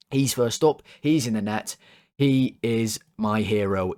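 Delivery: ordinary delivery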